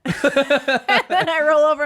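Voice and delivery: laughing through the words, slowed; can't stop laughing while telling it. Real, not acted. Friend recounting her fall, laughing.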